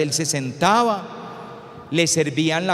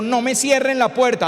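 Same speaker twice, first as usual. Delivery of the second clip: madre preocupada; 5 semitones higher than usual. Acted. Worried mother calls to teenagers.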